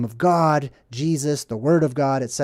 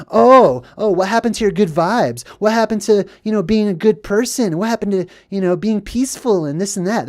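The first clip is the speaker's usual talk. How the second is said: higher-pitched mocking protest, loud "oh" at the start; mock indignant; 4 semitones higher, 3 dB louder than usual. Accusers caught out appeal to good vibes, mock indignant. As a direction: imitate a caught person's put-on reproach.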